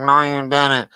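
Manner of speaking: low, nasal mock of the guest; mocking the guest's bad mic sound; nasal Squidward mock. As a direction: pinch it through the nose like Squidward. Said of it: "And he talking through his nose".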